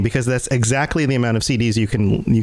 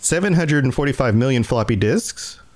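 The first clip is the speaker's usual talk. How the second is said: ending on an upward rising inflection; 2 semitones higher than usual. Showing the other speaker how to end a fact: ending on an upward inflection. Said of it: "you should say it like this".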